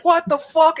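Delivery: high-pitched mock disbelief; shocked outrage. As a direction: exclaim it as the cheated gang would. Acted shock of cheated characters.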